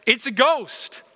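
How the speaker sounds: a mild cry of fright from men on the water; cried out in fear. A narrator's reading. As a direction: blurt "It's a ghost" in sudden alarm. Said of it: "And they cried out in fear".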